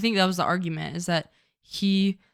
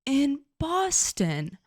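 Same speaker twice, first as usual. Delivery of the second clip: mock scolding; 4 semitones higher, slower than usual. Calling her out in mock lecture.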